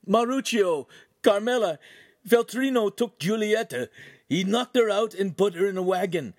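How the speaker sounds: high, loud, panicked report; frantic babble. A narrator's reading. Bleeding Ugolino telling friends of the attack, frantic babbling. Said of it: "began to babble so quickly he was incoherent".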